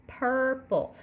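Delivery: Purple said slowly in two beats, pur-ple; syllable demo. Shown as a demonstration. Teacher saying Purple with hand under chin. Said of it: "you'll say purple".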